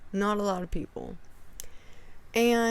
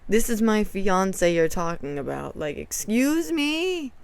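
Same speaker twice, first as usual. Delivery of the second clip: firm defense. Retold or imitated. Retold defense of fiance.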